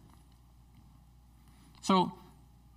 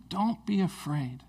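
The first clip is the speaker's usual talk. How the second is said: gentle reminder; slower than usual. Shown as a demonstration. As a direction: say "don't be afraid" slowly, as a calm reminder. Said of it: "it's so important for us to remember".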